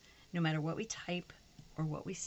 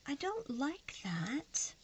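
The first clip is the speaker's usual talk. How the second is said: slow, high breathy whisper; 7 semitones higher, much slower than usual. Retold or imitated. Crafter disapproving of a sticker in a whisper. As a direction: hiss it out slowly in disgust. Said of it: "I'm just like".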